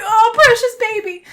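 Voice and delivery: high, loud, gushing sympathy; mock pitying coo. Reader reacting to the crying boyfriend, hammed-up pitying coo. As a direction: coo over a poor sick darling.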